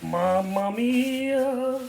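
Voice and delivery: slow, savouring Italian exclamation; drawn-out mamma mia. Pretend. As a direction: relish every syllable. Savouring imagined taste.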